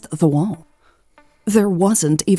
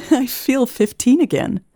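higher, giggly and playful; giggling; 7 semitones higher than usual. A narrator's reading. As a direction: giggle the line like a teen. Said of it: "Elle giggled".

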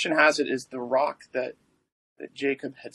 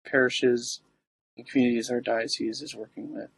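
prayer. Acted. Leads the prayer intentions.

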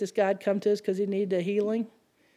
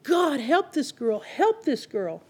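crying out in prayer; 3 semitones higher, slower than usual. Retold or imitated. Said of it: "crying out".

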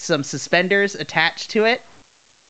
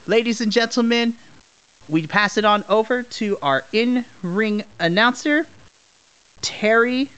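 ring announcer; 3 semitones higher than usual. Acted. Back to announcer.

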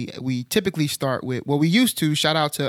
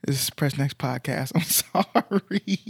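stifled giggles; slower than usual. Real, not acted. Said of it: "I was trying not to laugh during the intro".

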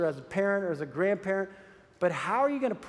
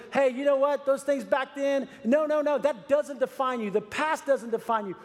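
preacher voicing the tempter's call, raised and urgent; mock voice from Satan; 6 semitones higher than usual. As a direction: push it out like a rising call. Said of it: "Don't let Satan come along and say".

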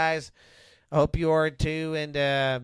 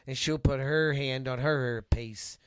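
TV evangelist. Acted. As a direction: lead the flock gently like a TV preacher. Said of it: "You sound like a T V evangelist".

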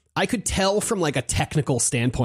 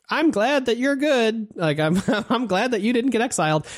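squeaky-sweet imitation; high mock voice; 9 semitones higher than usual. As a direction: play the relieved crew member. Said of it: "And they're like".

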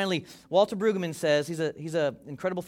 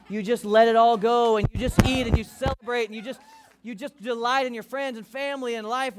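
higher, rising with excitement; joyful celebration; 6 semitones higher, 5 dB louder than usual. Real, not acted. Pastor urging the church to celebrate, excited and higher. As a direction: let them feel the joy of it.

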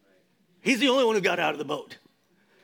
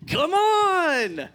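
Jesus inviting; 10 semitones higher, 5 dB louder than usual. Acted.

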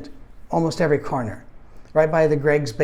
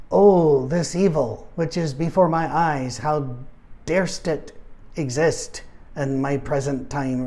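mock righteous outrage; slower than usual. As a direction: play the shocked churchman, tongue in cheek. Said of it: "my first thought wasn't".

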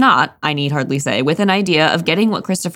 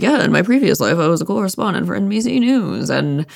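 newsman voice; 2 semitones higher than usual. Retold or imitated. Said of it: "how you naturally talk".

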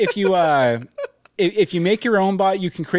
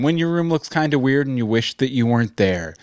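creepy whisper voice; 6 semitones lower than usual. Acted. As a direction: read it like a horror movie child. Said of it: "That's a really creepy line".

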